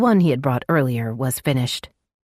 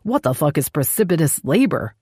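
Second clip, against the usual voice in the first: snarl. Acted. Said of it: "Brant snarled".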